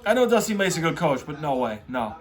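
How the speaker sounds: ordinary talk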